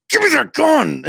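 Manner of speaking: sudden high, loud yell; a retold panicked shout at his nephew; frantic yell. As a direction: shout it in a panic to grab the gun. Retold panicked grab for the gun.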